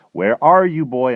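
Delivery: father's loud, high shout. A narrator's reading. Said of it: "and he shouts".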